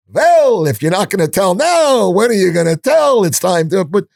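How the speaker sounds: a pushy rabbi coaxing a confession, played big and high. The rabbi presses the guest at dinner, in a hammed-up high voice. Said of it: "the rabbi does the rabbi thing".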